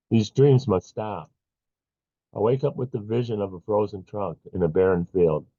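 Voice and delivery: measured poetry recital with long pauses; poem reading. Acted. Poet reading to a poetry-night audience, measured recital. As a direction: read the poem phrase by phrase, deliberately. Host reads own poem aloud.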